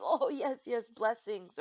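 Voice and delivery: lightly voiced pleasant well-wisher; gracious reply. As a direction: imitate someone happily returning a greeting. Voicing gracious woman in burqa.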